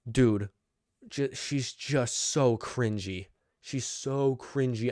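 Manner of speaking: slow, drawn-out disgust; exasperated. Real, not acted. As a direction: drag it out in disbelief. Exasperated rant about Natalya.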